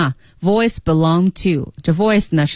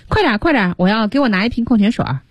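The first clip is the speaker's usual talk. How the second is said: higher, hurrying complaint; mildly whiny, pitched-up demand; complaining; 4 semitones higher, faster than usual. Acted. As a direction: grumble impatiently for service. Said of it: "又用那种很抱怨的语气说".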